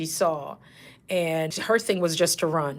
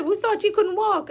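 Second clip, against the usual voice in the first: high-pitched feigned astonishment; mock amazement; 3 dB louder than usual. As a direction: act amazed as you catch out a faker. Nurse catches faking patient out.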